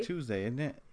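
"Tuesday, isn't it?" in a mock British accent; British accent saying "Tuesday". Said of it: "you can't even imitate the Brits".

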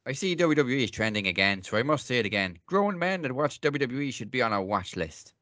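a light, hammed-up Irish accent reading the tweet. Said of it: "I'm actually gonna do this one in an Irish accent".

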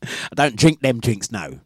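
put-on slow refusal in a made-up accent; Maureen's fictitious accent. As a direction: turn the drinks down in a mock accent. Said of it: "her accent is this".

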